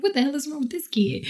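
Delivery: breathless unvoiced whisper; whispered aside. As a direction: whisper it to yourself in disbelief. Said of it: "so I'm like".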